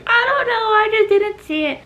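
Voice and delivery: high, teary panicked whimper; imitating her own tearful panic on the phone; mock crying whine. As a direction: whine it like you're about to cry. Retelling panicked call with mom.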